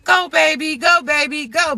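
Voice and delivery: lightly cheering a swimmer on; root for him from the raft; cheering Jack on as he swims; mock cheering. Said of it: "I would have been cheering for him".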